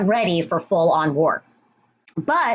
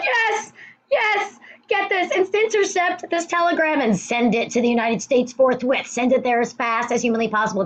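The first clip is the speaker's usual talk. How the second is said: much higher, gleeful rush of orders; excited British; 6 semitones higher than usual. Retold or imitated. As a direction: cheer like you just struck gold. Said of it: "the British were so excited".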